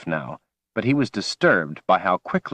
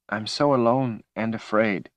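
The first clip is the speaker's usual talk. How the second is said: tearful lament; 3 semitones higher than usual. Acted. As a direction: whimper it like a lost child. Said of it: "she sobbed".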